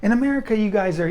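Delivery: high, exaggerated whiny voice of a stereotyped Korean; mocking Korean complaint. Mocking Koreans who claim a monopoly on being busy, high and whiny. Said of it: "people like to pretend that".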